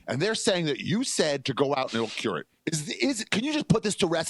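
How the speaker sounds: butter up the president while trashing the press; hammed-up fawning press guy; mock suck-up reporter. Acted eager reporter question to Trump.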